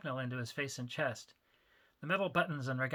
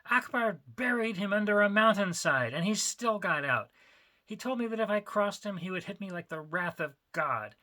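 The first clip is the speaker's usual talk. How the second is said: frightened warning; 6 semitones higher, 7 dB louder than usual. Acted.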